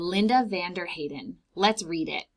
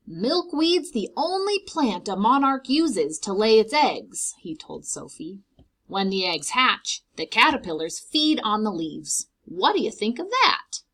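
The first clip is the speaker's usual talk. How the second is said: lightly voiced old man; 3 semitones higher, 6 dB louder than usual. Mister McGinty telling his dog Sophie about monarchs, lightly voiced. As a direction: share the fact with delight.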